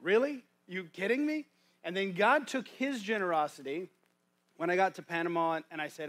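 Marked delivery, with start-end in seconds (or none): 0.0-1.5 high, loud "Really?" in happy disbelief; disbelieving surprise. Retold or imitated. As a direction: retell the surprise as if it just happened. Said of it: "I'm like".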